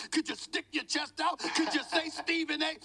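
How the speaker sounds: chest out, announce it proudly; enthusiastic. Shown as a demonstration. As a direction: hype it up with swagger. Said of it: "Could you do it with some enthusiasm?".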